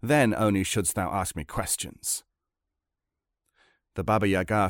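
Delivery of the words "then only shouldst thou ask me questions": put-on bold, scolding young hero; indignant Ivan. Tsarevich scolding the old hag for poor welcome, indignant. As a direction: rebuke her, punching the key words.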